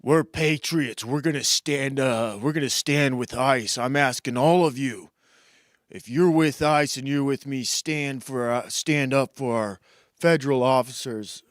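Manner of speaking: lightly voiced rally speaker, stretched opening; mock right-wing patriot. Host imitating people on the right, mock patriotic appeal. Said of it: "people on the right are like".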